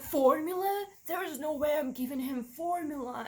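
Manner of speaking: shocked mother refusing the nurse; incredulous refusal. Retold or imitated. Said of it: "And I was like".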